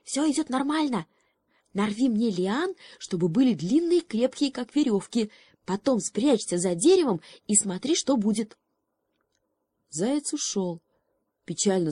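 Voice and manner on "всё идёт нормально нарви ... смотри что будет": high frog voice, a mock whisper; lightly voiced frog, plotting; frog's hushed plan. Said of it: "прошептал из травы".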